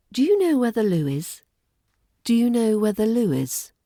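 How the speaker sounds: "Do you know where the loo is?" smoothly linked, falling softly at the end; polite falling intonation. Shown as a demonstration. Teacher models a polite British question over tea, gently falling intonation. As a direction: glide through "Do you know where the loo is?" and let "is" fall, no upspeak. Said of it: "relaxing linking and the soft intonation".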